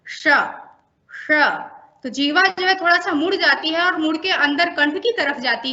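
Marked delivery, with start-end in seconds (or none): 0.1-1.6 a curled, throaty retroflex श. Shown as a demonstration. Teacher demonstrating retroflex श to trainees. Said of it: "इसका उच्चारण श के रूप में करते हैं".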